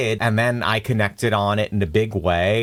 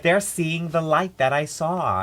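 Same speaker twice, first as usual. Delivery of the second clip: awed wonder; 6 semitones higher, slower than usual. Retold or imitated. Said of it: "I was like".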